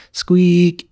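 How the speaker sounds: high squeaky imitation of a squeak; mock squeak. Retelling a classmate's fall, imitating his high squeak. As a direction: squeak it out like a kid falling. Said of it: "made the loudest squeak noise ever".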